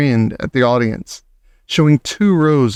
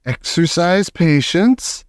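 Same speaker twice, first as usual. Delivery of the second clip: slow, lightly raised witch command; Grand High Witch; 5 semitones higher, slower than usual. Acted. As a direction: make them wait, slowly. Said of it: "answered the Grand High Witch".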